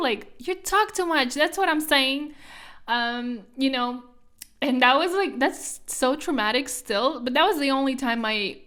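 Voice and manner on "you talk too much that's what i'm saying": mock angry shout, higher and louder; imitating grandpa's yell; retold yell. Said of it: "literally yelled at me".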